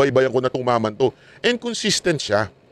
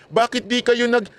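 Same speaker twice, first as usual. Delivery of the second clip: taunting; 7 semitones higher, slower than usual. Real, not acted. Taunting former critics.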